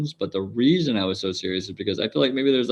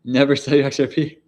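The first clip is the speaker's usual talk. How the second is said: higher, pitched-up billionaire CEO voice; Michael Saylor impression; 5 semitones higher, 5 dB louder than usual. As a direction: play a hyped crypto billionaire, pitched up. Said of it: "That's my, uh, Michael Saylor impression".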